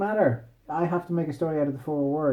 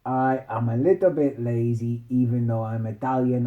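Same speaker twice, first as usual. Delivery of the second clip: mock Italian accent. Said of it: "she was like".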